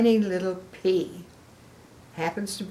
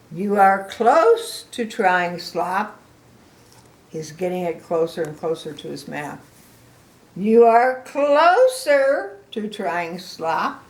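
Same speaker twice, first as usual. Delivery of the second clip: encouraging pig; 6 dB louder than usual. Acted. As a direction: build the suspense. Piggy encouraging.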